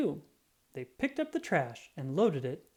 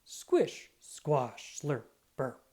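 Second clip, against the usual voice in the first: squeaky sound word; 2 semitones lower, much slower than usual. A narrator's reading. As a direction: squeak it out playfully. Concrete mixer sound word.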